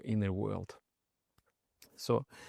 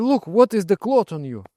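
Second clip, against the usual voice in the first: louder, higher reproach; scolding friend; 7 semitones higher, 7 dB louder than usual. Retold or imitated. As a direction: point at his robe in dismay. Friend scolding drunk monk.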